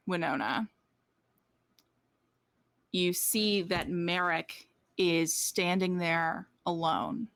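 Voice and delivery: measured narration with long suspenseful pauses; game master's scene-setting. Acted. Game master describes the back-door reveal to a player, paused narration. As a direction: set the scene piece by piece, letting each phrase hang.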